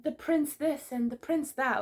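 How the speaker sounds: high, drawn-out mock gushing; slow, high-pitched mocking quote; mocking imitation. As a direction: mimic an annoying girl going on about him. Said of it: "so dead ass annoying when she kept saying".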